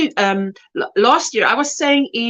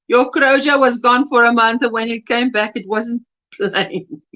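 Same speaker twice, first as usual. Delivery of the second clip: giggling. Real, not acted. Rereading the joke while giggling.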